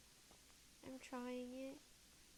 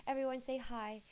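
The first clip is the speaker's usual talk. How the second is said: nervous plea; 7 dB louder than usual. Real, not acted. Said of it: "because I'm terrified".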